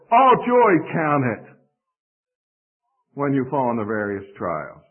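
emphatic, literal reading with ALL JOY hit hard; word-for-word Greek order. Shown as a demonstration. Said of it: "it would talk like this".

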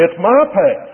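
a lion half-roaring its claim to the path; little roar. Retold or imitated. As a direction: mildly roar it as the lion, stressing "my". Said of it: "perhaps a little bit of a roar".

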